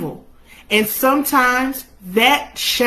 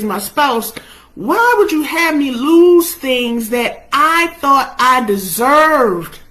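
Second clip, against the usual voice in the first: insistent, raised-voice challenge; questioning God; 4 semitones higher, 4 dB louder than usual. Acted. Believer asks God why the losses came, forceful questioning. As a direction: press God for answers, leaning hard on each why. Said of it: "but he was questioning".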